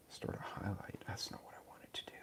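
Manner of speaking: hushed self-talk, not for the audience; whispering to himself as he fumbles with the live stream buttons; whispered to himself. Real, not acted. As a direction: whisper under his breath while fiddling with settings. Fumbling with stream settings alone.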